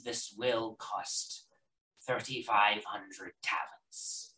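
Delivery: soft, measured merchant; shopkeeper haggling. Acted.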